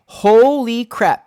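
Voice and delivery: slow, high, loud holy crap; shocked outburst. Real, not acted. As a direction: blurt it out in shock.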